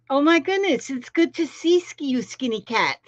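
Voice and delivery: high, excited welcome; delighted greeting. Real, not acted. Delighted greeting to first-time viewer.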